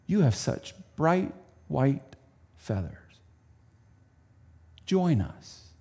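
kindly. Acted. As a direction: welcome him tenderly. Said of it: "they greeted him kindly".

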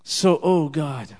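earnest, measured prayer with swells of fervour; closing prayer. Acted. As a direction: lead the people in heartfelt prayer. Closing prayer led aloud.

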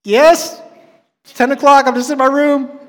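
high, loud retold irritation; exasperated, mad reply. Man disturbed in his room at ten o'clock, mock-exasperated. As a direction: answer as if barely holding it together. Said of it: "I got so mad".

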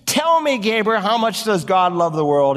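high, eager question up to the angel; asking Gabriel. Retold or imitated. Preacher voicing a man asking Gabriel in heaven, awed question. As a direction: call up to Gabriel in wonder. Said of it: "suppose I could find Gabriel".

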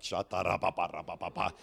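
low, quick tongues babble in an altered voice; speaking in tongues. Retold or imitated. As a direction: burst into tongues, pumped. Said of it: "I'm like".

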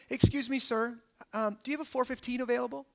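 soft, hesitant polite inquiry; timidly ask, hurrying softly through the question; meek polite request. Pretend. Woman politely asking the teacher for an appointment, meek and soft. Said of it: "and she doesn't go".

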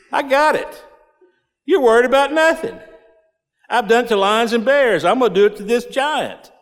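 put-on young shepherd brushing off the king's fears; cocky boast. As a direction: reassure the king, sure of winning. Preacher voicing confident young David.

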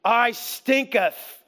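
slow, puzzled mock sniffing; mock Lazarus waking. Lazarus waking in the tomb, slow puzzled mock. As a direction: act out waking up and smelling yourself, slowly. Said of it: "And you go".

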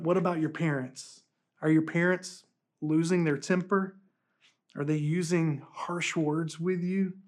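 put-on soft, gentle voice for kids; gentle talk to children. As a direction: speak softly to the little ones. Pastor addresses children softly.

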